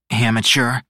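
haughty put-down; mean smirk. A narrator's reading. Osella scoffs at Teo choking, haughty and smirking. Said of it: "said with a mean smirk".

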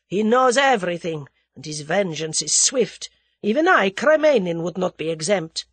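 forceful Russian warning with loud bursts; lightly voiced, dread-filled Russian; fearful Russian. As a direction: insist on the danger, as the Russian.

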